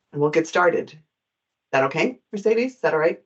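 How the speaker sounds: rough, gravelly allergy voice. Real, not acted. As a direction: speak through a gravelly throat. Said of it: "Sorry for my gravelly voice".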